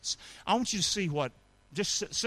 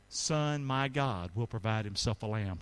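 soft recitation; 8 semitones lower, 6 dB quieter than usual. Shown as a demonstration. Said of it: "Can you say that with me".

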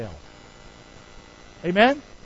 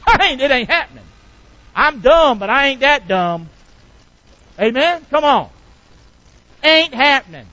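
emphatic refusal; 6 semitones higher, 7 dB louder than usual. Acted. Pastor playfully refusing hell.

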